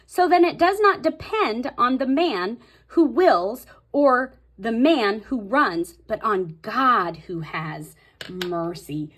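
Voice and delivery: emphatic Bible reading, lifted and deliberate; scripture reading. Real, not acted. Teacher reading Romans nine to viewers, emphatic scripture reading. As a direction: read the verse out with weight, slowing toward the end. Reads Bible verse aloud.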